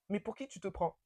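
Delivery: quiet, softened read-out of a message; hushed reading. Retold or imitated. Reading out his text to the listeners, hushed.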